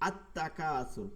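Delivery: আত তাকাসুর said on its own, slowly, the তা doubled; separate reading. Shown as a demonstration. Teacher shows the word read separately, slow and careful. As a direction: read আত তাকাসুর apart from the verse. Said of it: "যখন এটাকে পৃথক করে বলবেন".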